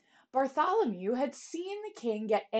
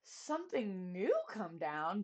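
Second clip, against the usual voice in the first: gasping; 6 dB quieter than usual. Acted. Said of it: "Bartholomew gasped".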